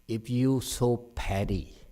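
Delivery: "petty" leaned on, the phrase slowed down; stress on petty. Real, not acted. Cautioning the listeners about pettiness, stress on "petty". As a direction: say it slowly and press on the word "petty". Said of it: "I stress the word petty".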